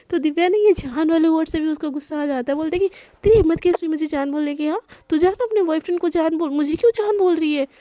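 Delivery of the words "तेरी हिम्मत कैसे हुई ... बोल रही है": higher, fast, indignant; how dare you, spat out; offended girl scolding her friend; angry outburst. Acted. Divya angered by "jaan.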